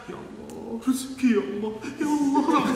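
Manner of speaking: whiny rising plea that climbs high and loud into a laugh; mock a greedy worshipper begging for money; mock begging prayer. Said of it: "Kalau kita kan". (doa merengek dibuat-buat, makin tinggi sampai tertawa)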